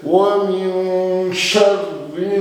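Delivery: शर्रि with the doubled r held; ghunna on shadda. Shown as a demonstration. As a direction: hold the shadda in शर्रि slowly. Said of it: "गुन्ना वाजिब है". (शद्दा पर ठहराव)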